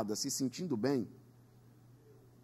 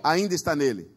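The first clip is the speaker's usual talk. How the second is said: said stronger; 3 semitones lower, 5 dB louder than usual. Shown as a demonstration. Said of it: "diga mais forte".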